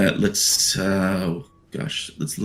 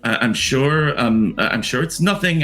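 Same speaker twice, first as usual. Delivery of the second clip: soothing nurse; 4 semitones higher than usual. Acted. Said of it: "another voice inside being like".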